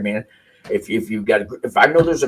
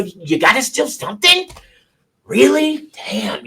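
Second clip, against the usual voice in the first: a hammed-up shocked friend chiding a shoplifter; mock disbelief; 11 semitones higher, slower than usual. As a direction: act stunned that they'd steal. Scolding friends who shoplift.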